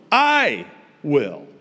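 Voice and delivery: corrective, hammered "I" before "will"; stress on I. Shown as a demonstration. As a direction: punch "I", let "will" fall. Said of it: "the emphasis is on "I".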